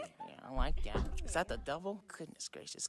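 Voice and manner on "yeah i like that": laughing. Real, not acted. Laughing approval of a costume.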